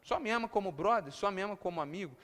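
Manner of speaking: baixinho, murchando até quase sumir; pergunta rebaixada de Jesus. Acted. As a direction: pergunte baixo, com mágoa contida. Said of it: "usando a palavra que Pedro usou". (pergunta baixa e decepcionada)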